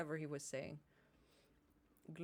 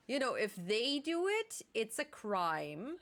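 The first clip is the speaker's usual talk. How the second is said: mocking double standard; 2 semitones higher, 4 dB louder than usual.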